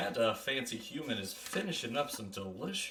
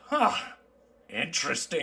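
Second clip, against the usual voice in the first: dwarf; 4 semitones higher than usual. Acted. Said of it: "He goes".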